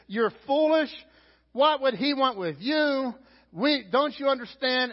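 high, loud rebuke from a crowd; scolding yell. Acted. Crowd rebuking the blind man, high scolding yell. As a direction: yell him down, stretching out the question. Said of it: "They yell at him".

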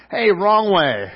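mock calling out. Mock name-calling at nicknamed player.

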